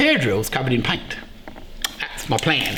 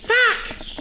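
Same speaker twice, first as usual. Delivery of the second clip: shocked curse. Real, not acted. Shock at mismatched drill.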